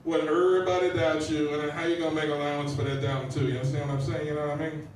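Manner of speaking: lightly put-on casual poet voice; lightly hammed-up impression of a poet; Rudyard Kipling. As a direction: recite it like loose, conversational street talk. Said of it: "It's my impression of Rudyard Kipling".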